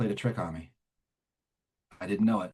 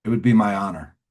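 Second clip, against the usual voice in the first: louder, self-assured acceptance; smug reply; 3 semitones lower, 5 dB louder than usual. Retold or imitated. Sponsor accepts the newcomer's request, heard as smug. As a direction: answer with a touch of smugness. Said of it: "What a smug thing".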